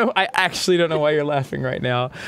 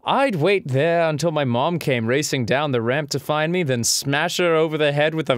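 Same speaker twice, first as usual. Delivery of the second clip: attempted British accent. Telling a childhood game story, attempted British accent. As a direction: put on an unconvincing British accent. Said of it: "not British".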